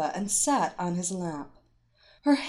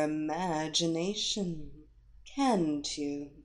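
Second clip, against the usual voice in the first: hypnotic voice; slower than usual. Acted. Hypnotist lulling him deeper.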